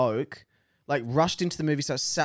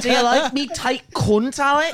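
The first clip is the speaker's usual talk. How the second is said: pirate voice; 10 semitones higher, 6 dB louder than usual. Acted. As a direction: ham up a crude pirate, grinning. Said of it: "sounds like she's been part of Davy Jones' lockup".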